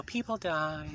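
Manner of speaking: put-on, drawn-out girly voice; mock-girlish lilt; girl's voice. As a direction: say it like you're a girl. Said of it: "if I'm a girl".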